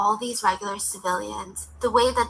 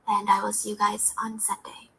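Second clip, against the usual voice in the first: whispered sign-off; 5 dB quieter than usual. Real, not acted. Emotional sign-off after sad episode.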